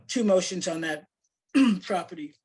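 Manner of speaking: hoarse, losing voice, clearing throat; strained voice that is giving out. Real, not acted. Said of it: "Sorry, I'm losing my voice".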